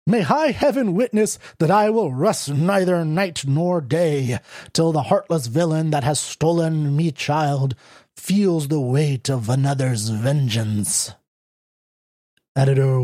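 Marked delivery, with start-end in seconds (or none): 0.1-11.1 mock theatrical vow, slowing at the end; melodramatic stage mother. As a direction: ham up a stage mother's oath. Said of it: "the mother kneel and raise her hands".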